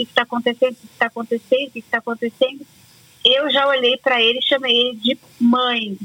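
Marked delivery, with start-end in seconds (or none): none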